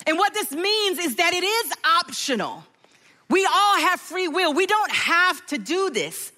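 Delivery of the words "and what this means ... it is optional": ordinary talk, nothing marked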